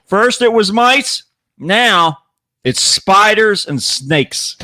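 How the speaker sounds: slow, ominous build-up; dramatic news read. Acted. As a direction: draw it out like a trailer. Dramatic opening of news story.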